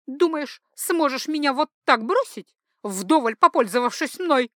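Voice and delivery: high, indignant threat, only lightly venomous; snake-like hiss. A narrator's reading. Jilted mistress confronts her departing lover, mildly venomous. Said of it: "зашипела она, как змея".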